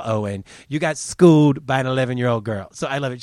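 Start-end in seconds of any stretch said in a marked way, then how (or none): 0.7-2.7 louder, hammering the word schooled; taunting the reporter, punching schooled. Shown as a demonstration. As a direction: rub it in harder the second time. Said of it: "repeats louder".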